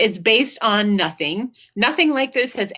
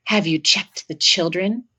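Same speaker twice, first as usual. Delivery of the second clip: creepy caller; 3 semitones lower, slower than usual. Retold or imitated. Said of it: "a man comes onto the line and says".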